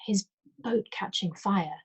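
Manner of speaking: slow, hesitant and unsure; a touch of tentative worry. Acted. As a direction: feel your way through it. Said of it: "she said tentatively".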